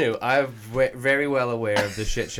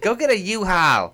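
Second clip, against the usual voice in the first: quoting angry mom; 8 semitones higher, 7 dB louder than usual. Retold or imitated. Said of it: "She's like".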